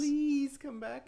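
high, drawn-out fake crying plea; mock tearful pleading. Host begging his co-host on the phone, mock-tearful pleading. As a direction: whine it slowly, hammed-up begging. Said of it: "when I cry and plead on the phone".

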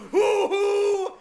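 loud, high hoot like a whistle; train whistle hoot. Pretend. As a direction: toot it like a toy train. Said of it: "Are you making train noises".

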